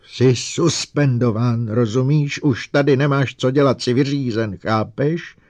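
loud roaring fury. A narrator's reading. Lening roaring at Bogart in rage. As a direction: bellow it like a lion. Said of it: "zařval jako lev".

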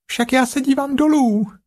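loud Piglet. A narrator's reading. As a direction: call out so the jagular hears. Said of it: "zvolalo prasátko hlasitě". (prasátko hlasitě volá)

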